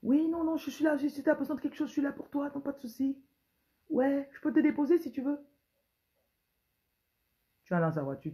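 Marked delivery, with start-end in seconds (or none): 0.0-5.4 seductive voice. Acted. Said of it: "Il te drague avec sa voix". (voix de dragueur, haute et douce)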